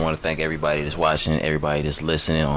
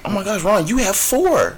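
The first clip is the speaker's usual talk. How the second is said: high, excited schoolgirl voice; girly voice; 4 dB louder than usual. Retold or imitated. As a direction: gush like an impressed classmate. Imitating classmates at school.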